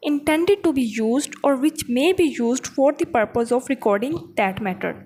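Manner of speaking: slow, deliberate reading of the legal text; measured classroom dictation of a definition; slow statute reading. Acted. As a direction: read it out word by word as if dictating to students. Reads statute text aloud.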